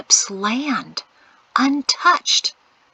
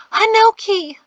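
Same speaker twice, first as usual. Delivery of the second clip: calling his name high and urgent; an urgent loud stage whisper; 13 semitones higher, 9 dB louder than usual. A narrator's reading. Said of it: "she whispered loudly".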